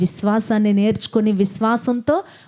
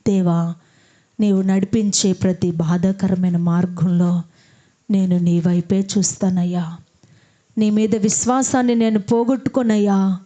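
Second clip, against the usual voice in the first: fervent prayer. Acted. Pastor leading the kneeling congregation, rising fervent prayer. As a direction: lead the people in fervent prayer.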